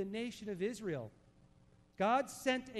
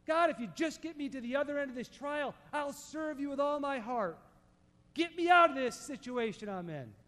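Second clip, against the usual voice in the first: imitated pleading prayer, raised pitch; bargaining with God; 5 semitones higher, 4 dB louder than usual. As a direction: plead for a deal, pushing harder at the end. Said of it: "And we start to bargain".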